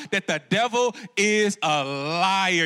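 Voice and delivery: slow, drawn-out grandma voice; lightly voiced old grandma; grandma's saying. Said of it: "as my grandma would say".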